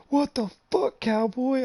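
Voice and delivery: imitated high-pitched stunned friend; friend's shout. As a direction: blurt it out in total shock. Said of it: "you just hear".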